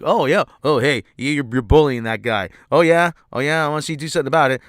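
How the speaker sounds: hammed-up swagger of a douchebag; mock tough guy. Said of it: "he's like".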